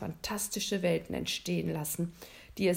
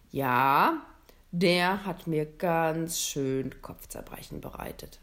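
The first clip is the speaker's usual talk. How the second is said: a touch of a louder, kindly Santa Claus; lightly voiced Santa; 2 semitones lower, 4 dB louder, slower than usual. Santa musing to the boy at the North Pole, lightly voiced, louder. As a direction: read Santa a bit fuller and louder, musing.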